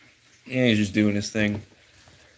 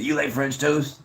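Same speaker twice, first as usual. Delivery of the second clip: buddy's voice, pitched a bit higher; imitating his buddy; 4 semitones higher, slower than usual. Buddy offering the streamer French toast, imitated higher voice. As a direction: lightly mimic a friend, slightly higher. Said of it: "that's what his voice sounds like".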